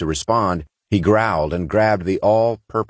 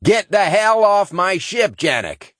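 high, slow, forceful growled order; 14 semitones higher, 3 dB louder, slower than usual. Acted. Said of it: "he growled".

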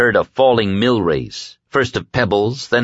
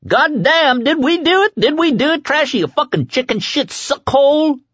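wild high-pitched gloating; triumphant screaming. A narrator's reading. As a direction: scream it in manic celebration. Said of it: "the kid screamed triumphantly".

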